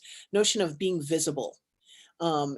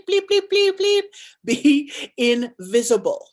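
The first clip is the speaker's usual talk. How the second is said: retold scolding. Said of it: "this is what I heard her say".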